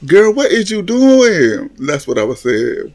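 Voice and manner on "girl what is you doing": high, drawn-out scolding question; exaggerated, slow incredulous reproach; recalled disbelief. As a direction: stretch it up high like calling out a friend. Recalls scolding reaction to kiss.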